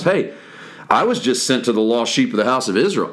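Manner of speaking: dry, doubting aside to the disciples; quick sarcastic quip; sarcastic question. Shown as a demonstration. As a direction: say it as if it ends in a question mark. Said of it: "you should put a question mark on that".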